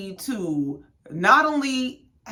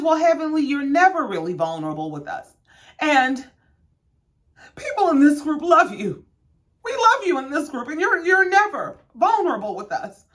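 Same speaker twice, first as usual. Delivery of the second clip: mock tearful plea; 8 semitones higher than usual. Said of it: "And Quad says".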